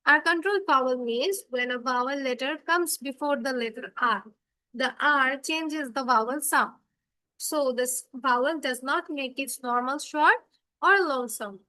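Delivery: reading a definition word by word, very slow. Acted. Teacher reading a definition aloud for the class, very slowly. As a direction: dictate it slowly for the class to follow.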